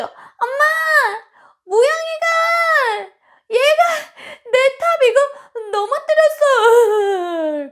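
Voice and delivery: put-on high, loud, sobbing yell of a wronged little kid; tearful child shouting for mom; crying child's shout. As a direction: wail it to mom like a six-year-old in tears. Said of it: "막 울면서".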